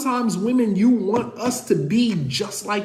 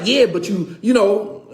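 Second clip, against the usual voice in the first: wife voice; 2 semitones higher, 5 dB louder than usual. Retold or imitated. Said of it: "as my wife say".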